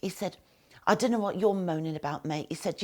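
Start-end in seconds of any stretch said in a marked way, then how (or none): 0.8-2.5 booming voice. Retold or imitated. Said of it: "said in a really loud, booming voice".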